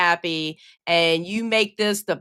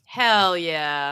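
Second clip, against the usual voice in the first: whisper; 4 semitones lower than usual. Real, not acted. Whispered cheer.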